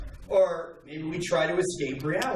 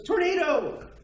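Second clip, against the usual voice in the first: mock alarm shout; 14 semitones higher, 4 dB louder, slower than usual. Prisoner tricks executioners.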